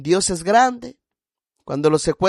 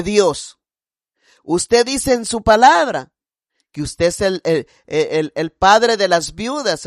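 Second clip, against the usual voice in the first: earnest prayer; 5 dB louder than usual. Retold or imitated. Retelling her prayer to God.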